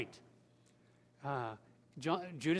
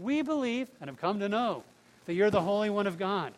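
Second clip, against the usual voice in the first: emphatic declaration; 4 semitones higher, 5 dB louder than usual. Acted. Preacher voices Peter's declaration of faith.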